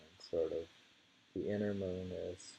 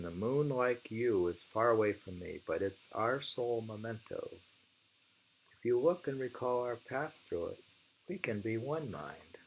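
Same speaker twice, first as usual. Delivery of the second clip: poem reading; 3 semitones higher than usual. Acted. Reading a monk's poem to a friend, measured. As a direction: read the verse with care.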